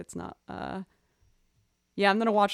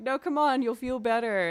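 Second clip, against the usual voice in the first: higher, louder pleading with a pet; mock coaxing; 4 semitones higher, 5 dB louder than usual. Owner to pet headed for bathroom, acted coaxing. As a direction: coax a reluctant pet, acted out.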